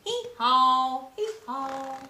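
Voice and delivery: braying hee-haw; donkey bray. Acted. Teacher braying as the little donkey at bedtime.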